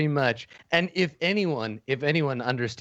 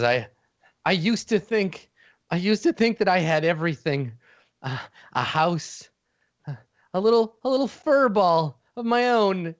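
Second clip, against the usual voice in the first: tearful little villain; 5 semitones higher than usual. Acted. Furry villain pleads with Eugene, close to tears. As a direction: beg him to understand, eyes full of tears.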